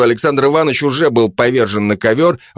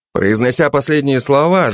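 ordinary delivery

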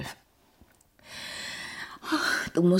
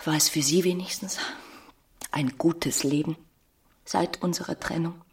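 intimate whisper; 2 semitones lower, 7 dB quieter than usual. Acted. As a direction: lean in and whisper. Emma asks intimately.

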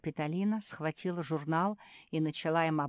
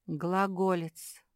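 exclaimed; 4 semitones higher, 4 dB louder, much slower than usual. Acted. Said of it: "воскликнула Марсия".

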